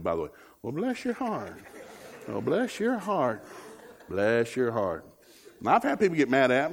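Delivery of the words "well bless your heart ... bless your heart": drawn-out mock sweet bless your heart; sarcastic southern put-down. Preacher mocking with a Southern bless your heart, sugary and slow. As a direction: say it sweetly but mean you're stupid. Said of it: "That's Southern for "you're stupid".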